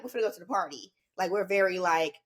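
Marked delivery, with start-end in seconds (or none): 0.0-0.9 put-on light Valley Girl accent with "party" said with an A; a touch of NorCal Valley Girl, "party" with an A. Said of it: "Valley Girl accent like this".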